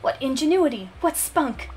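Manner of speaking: lightly voiced grand, self-important patron; pompous gentleman. Snobbish patron praising Stella for the wood print, lightly pompous. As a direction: read it as a lofty art collector. Reads a haughty character's lines.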